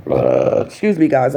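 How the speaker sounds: pained by heartburn; burp-catching, uncomfortable pause. Real, not acted. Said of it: "I got a little bit of heartburn".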